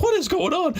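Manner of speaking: high, startled question; surprised. Retold or imitated. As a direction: pitch it up in alarm. Guests woken by the noise.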